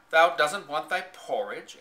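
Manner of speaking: astonished anyone would refuse porridge; exclaiming. A narrator's reading. Maid shocked the girl refuses porridge, exclaiming. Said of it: "exclaimed Martha".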